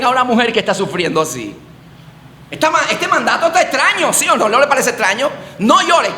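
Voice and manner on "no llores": raised, firm order; commanding No llores. Retold or imitated. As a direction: say it as an order, not a plea. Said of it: "eso es una orden".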